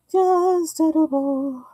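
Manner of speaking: high, drawn-out singsong; playful singsong. Pretend. Vlogger playfully echoing her own remark, singsong. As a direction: stretch it out high, gliding slowly down.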